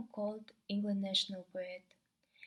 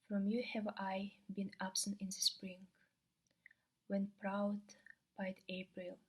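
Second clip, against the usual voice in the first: measured sonnet reading with pauses after each line; understated verse reading; poem recitation. Acted.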